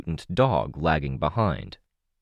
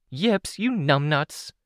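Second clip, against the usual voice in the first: much higher, yelled scolding; exasperated shout; 11 semitones higher, slower than usual. Acted. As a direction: yell at the clumsy dog. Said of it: "Cassie shouted".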